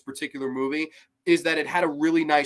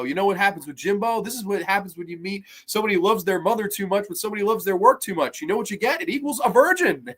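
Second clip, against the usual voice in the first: mock Val Kilmer; 4 semitones higher than usual. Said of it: "and he goes".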